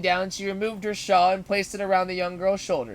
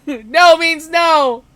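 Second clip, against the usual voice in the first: very slow, high laughing shout; laughing louder; 9 semitones higher, 14 dB louder, much slower than usual. Shown as a demonstration. Narrator shouts the rule at the bully, laughing. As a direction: belt it out through laughter. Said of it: "Did you just say no?".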